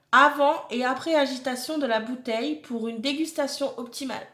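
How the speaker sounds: deliberate reading with pauses between phrases; product blurb read-out. Acted. Reading beer tasting notes to viewers, deliberate label read-out. Reads beer description aloud.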